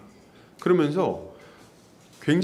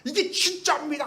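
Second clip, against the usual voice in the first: mock tearful preacher; 10 semitones higher than usual. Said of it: "울고 막 울분을 토하고".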